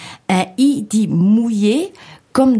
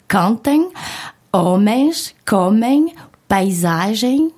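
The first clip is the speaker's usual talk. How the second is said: "cantem", "homens", "comem" stressed on the first syllable, "paisagem" on SA; stress on second-last syllable; slower than usual. Shown as a demonstration. Presenter lists words ending in -em, stress on second-last syllable. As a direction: example words spaced out, next-to-last syllable leaned on. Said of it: "on mettra l'accent tonique sur l'avant-dernière syllabe".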